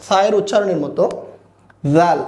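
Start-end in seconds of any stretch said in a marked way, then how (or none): 1.9-2.2 জাল opening on a voiced th, air between the teeth; airy dental sound. Shown as a demonstration. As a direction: let breath buzz through the teeth to start জাল. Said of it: "একটু দাঁতের মাঝখান দিয়ে বাতাস ছেড়ে দিয়ে". (দাঁতের ফাঁকে বাতাস ছেড়ে জাল)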